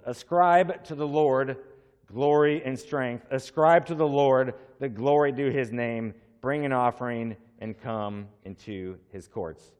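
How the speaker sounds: ringing, emphatic scripture reading; psalm proclaimed from the pulpit. Real, not acted. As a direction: proclaim each ascribe. Reads psalm aloud.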